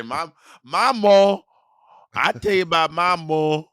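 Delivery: high, loud, slow mock voice; mocking imitation. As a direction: ham up the mock ma. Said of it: "I don't say".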